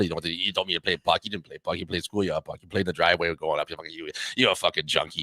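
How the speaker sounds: put-on light Boston accent, trading cursing insults; a hint of a Boston townie trash-talking; Boston guy insults. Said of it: "that's Boston".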